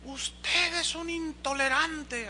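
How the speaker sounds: high, slow mock accusation from a woman; mimicking angry lady. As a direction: act out the scolding lady. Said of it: "me increpó y me dijo". (imitando a la señora que lo acusa, voz aguda)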